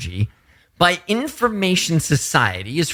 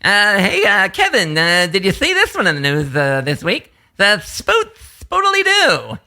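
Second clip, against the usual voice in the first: Jay Leno. Retold or imitated. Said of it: "Now is Jay Leno".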